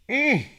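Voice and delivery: high, swooping mmm; high appreciative mmm; savouring hum. Real, not acted. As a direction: hum with pleasure at the sip. Savouring a sip of drink.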